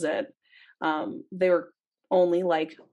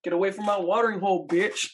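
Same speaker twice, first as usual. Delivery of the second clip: snarling elephant voice; faster than usual. Pretend.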